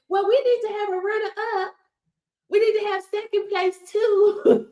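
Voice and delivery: mock fairness advocate. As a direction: imitate a prim committee proposing prizes for everyone. Mimics those who invented fairness.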